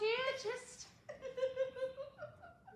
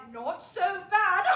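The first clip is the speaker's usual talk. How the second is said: slow, drawled deadpan reply, a touch louder; mock witty Ellie; 8 dB louder, slower than usual. Wife imitating her husband's deadpan quip, mock drawl. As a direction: send up the husband's dry wit. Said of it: "you would no doubt reply".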